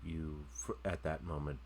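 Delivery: game master scene setting. Acted. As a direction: let each image hang before the next.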